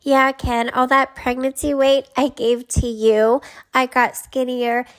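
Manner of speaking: a touch of perky, bossy plotting; Jip. Acted. Schemer coaching Ken on the paternity plan, lightly acted. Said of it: "Jip responds".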